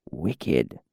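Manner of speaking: low hushed whisper; temple whisper. A narrator's reading. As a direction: breathe the word like a temple prayer. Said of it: "whispered the priest".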